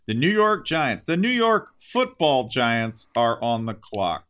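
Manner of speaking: announcer voice; booming draft announcer. Pretend.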